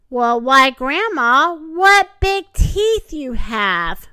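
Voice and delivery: loud, slowing amazement; astonished. A narrator's reading. Girl seeing the wolf's teeth, loudly astonished. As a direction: exclaim loudly, dragging out the last words.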